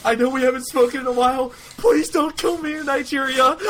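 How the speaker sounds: high, strained plea to God; high-pitched mock-desperate confession; desperate prayer. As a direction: pray like you're begging for your life. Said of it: "I literally started praying".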